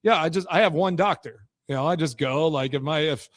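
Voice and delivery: dry mock-serious; deadpan joke said straight; sarcastic. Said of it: "I'm saying this sarcastically".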